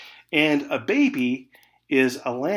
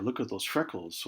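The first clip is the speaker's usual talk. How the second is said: inner voice; 2 semitones lower, 6 dB quieter than usual. Retold or imitated. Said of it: "your voice is going".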